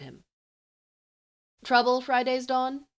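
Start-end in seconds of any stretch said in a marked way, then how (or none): 1.6-2.9 high, crackling questioning voice; a young soldier's crackly query; crackly girl voice. A narrator's reading. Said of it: "Her voice is becoming more crackly".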